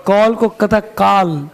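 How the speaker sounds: slow, drawn out काल with a long aa; mispronounced vowel. Shown as a demonstration. Teacher slowly mimicking the UP vowel in काल. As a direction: stretch the aa in काल deliberately. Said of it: "ए को आ पढ़ता है".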